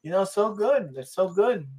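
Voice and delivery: high, mocking sing-song; mocking liberals. Mocking smug liberals to his friend. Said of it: "and they go".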